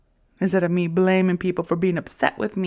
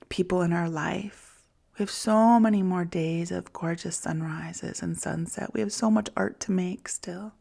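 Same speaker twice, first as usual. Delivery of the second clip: gentle self-parenting. Shown as a demonstration. Comforting herself in a whisper as a gentle parent. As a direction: whisper to yourself like a loving parent. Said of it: "This is how I gentle parent myself".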